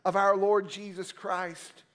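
solemn Bible reading, slowing toward the amen; scripture reading. Acted. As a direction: read the passage with solemn weight. Reads scripture before preaching.

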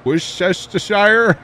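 Worcestershire as "wish-shesh-ta-shire", high and slow; mangled pronunciation. Real, not acted. Failing a hard word for chat, mangled pronunciation. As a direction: stretch Worcestershire with extra hissed sh syllables. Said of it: "what makes you think I can say that".

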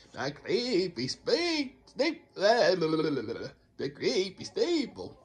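slow, drawn-out vampire voice, lightly done; a hint of a hammed-up Dracula, very slow; Count Dracula voice. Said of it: "Why am I sound like Count Dracula?".

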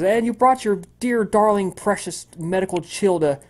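high, gushing welcome that dips mid-way; chipper cheerful woman. Acted. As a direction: lay on the sweetness for the guest. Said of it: "she says".

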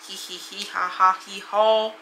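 a goofy hee-haw giggle; silly giggle. Real, not acted. Streamer giggling to chat before the video, goofy giggle. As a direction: giggle it out like a donkey.

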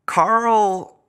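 high squeaky put-on voice of Carl; Carl's voice. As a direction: mimic the weird friend, way up high. Calling Carl's name in his voice.

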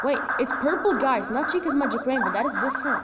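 eager gamer realizing something; excited. Real, not acted. Excited discovery.

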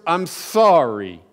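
slow, grudging, dragged-out sorry; reluctant apology. Retold or imitated. Boy forced by his parents to apologize, grudging. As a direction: force out "I'm sorry" like it hurts. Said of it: "but I would say the words".

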